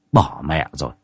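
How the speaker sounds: plain reading voice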